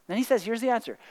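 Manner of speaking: whisper. Real, not acted. Confiding lead-in to scripture.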